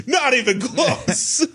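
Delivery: high, slow, laughing repeat. Real, not acted. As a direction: squeal it out through laughter.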